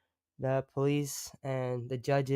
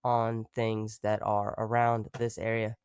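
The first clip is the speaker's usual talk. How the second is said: ordinary delivery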